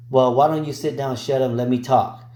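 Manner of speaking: mock-rude, teasing snap; joking sass. Nail tech teasing viewers who question filing, joking sass. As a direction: pretend to shut the viewer down, playfully. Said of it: "I'm just joking".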